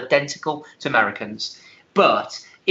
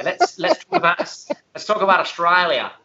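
higher-pitched, badly faked Australian accent; mock Australian accent; 4 semitones higher than usual. Suggesting Australia as a topic, mock Australian accent. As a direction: put on a playful Australian accent. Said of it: "Do you like my, like my accent?".

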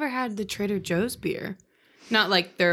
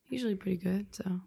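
whisper; 10 dB quieter than usual. Real, not acted. Unvoiced aside.

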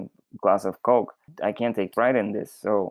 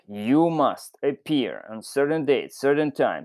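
stern official letter; 5 semitones higher than usual. Retold or imitated. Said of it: "sounded like".

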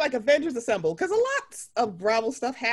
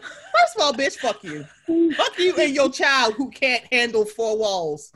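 loud, drawn-out telling-off; pissed off; 5 dB louder than usual. Acted. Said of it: "she pissed me off".

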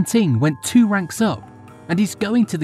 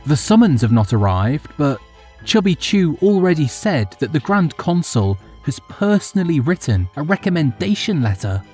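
smiling; 8 semitones higher than usual. Acted.

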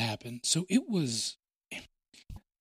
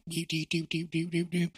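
robot noise; 4 semitones higher than usual. Retold or imitated. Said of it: "it was like a robot".

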